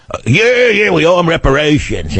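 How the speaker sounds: high, put-on sneering liberal voice; mocking liberal. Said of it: "I'll hear all the big-mouth liberals".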